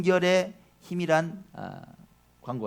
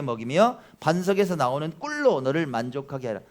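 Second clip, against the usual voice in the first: solemn psalm recitation; scripture reading; 3 dB louder than usual. Shown as a demonstration. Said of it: "같이 읽습니다".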